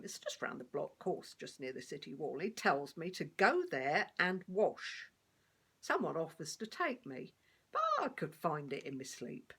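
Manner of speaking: lightly voiced cheeky street beggar, chatty and wry; a hint of a down-to-earth old beggar reminiscing; blind beggar telling his story. Sermon becomes blind beggar's monologue.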